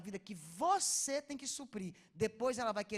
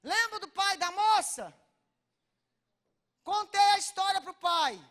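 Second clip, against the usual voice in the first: emphatic loud telling; 8 semitones higher, 13 dB louder than usual. Real, not acted. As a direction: pull the audience back in with force. Preacher returns to story with force.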